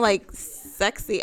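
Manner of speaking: drawn out very slowly; accidentally sexy. Real, not acted. Speaker stumbles into sounding sexy, slow accidental sultriness. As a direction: let the word stretch out, unintended sultriness. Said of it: "I didn't mean to make it sound".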